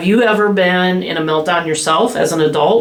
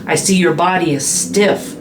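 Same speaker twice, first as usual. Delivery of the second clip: calm labeling demo. Shown as a demonstration. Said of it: "make sure that you're doing exactly the same look".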